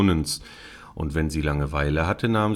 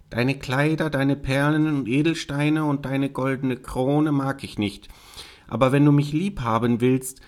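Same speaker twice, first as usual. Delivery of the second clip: higher-pitched storybook frog voice; bargaining frog; 5 semitones higher than usual. Acted. Frog asking the princess for companionship, bargaining. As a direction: play a frog setting out its wishes.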